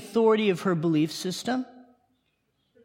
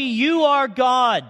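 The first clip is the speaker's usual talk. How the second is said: emphatic shout; much slower than usual. Real, not acted. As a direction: drive it home with a slow shout. Preacher repeats the claim.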